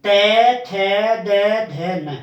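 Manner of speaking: त थ द ध न spoken clearly, tongue touching the teeth; dental letters demo. Shown as a demonstration. Teacher sounding out dental letters. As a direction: sound out त, थ, द, ध, न carefully. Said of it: "जैसे".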